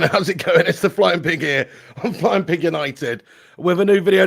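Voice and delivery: loud, punchy channel intro; energetic loud intro. Real, not acted. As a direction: hit the opening hard and loud. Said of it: "No, not new graphics".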